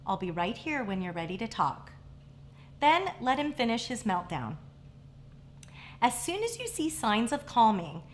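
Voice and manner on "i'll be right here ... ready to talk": put-on soft, steady and softer, reassuring an upset child; calm voice. Shown as a demonstration. Parent to a tantruming child, calm and reassuring. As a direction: calmly tell the child you'll wait nearby. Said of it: "say in a calm voice".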